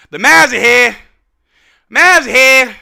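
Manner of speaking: loud, proud declaration; loud proclamation. Real, not acted. Fan declaring the team has arrived, loud and proud. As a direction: belt it out to announce the team's arrival. Same words repeated as a proclamation.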